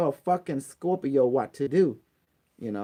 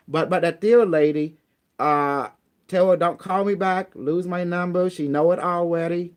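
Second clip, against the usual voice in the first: louder, angry dismissal; 5 dB louder than usual. Real, not acted. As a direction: tell her off, fed up.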